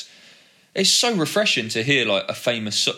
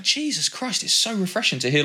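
high start, easing down; astonished reaction; 5 semitones higher than usual. Retold or imitated. Skater recalling hearing a familiar song, mildly astonished. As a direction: lightly re-enact being pleasantly astonished. Acting out own relieved reaction.

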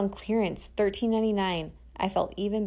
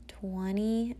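sweetest voice; 2 semitones higher, 4 dB quieter than usual. Retold or imitated. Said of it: "I said in my sweetest voice".

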